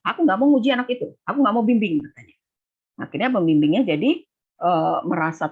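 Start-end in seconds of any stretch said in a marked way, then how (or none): 0.1-2.0 mock angry supervisor. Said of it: "pembimbingnya bertanduk".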